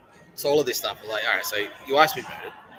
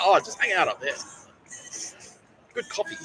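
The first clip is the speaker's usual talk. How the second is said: mock cheerful dad; 10 semitones higher than usual. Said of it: "And he's like".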